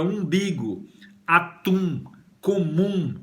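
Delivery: umbigo, atum, comum as separate model words; deliberate articulation. Shown as a demonstration. Teacher linking umbigo, atum, comum to number one, deliberately articulated. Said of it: "você tá articulando, pronunciando".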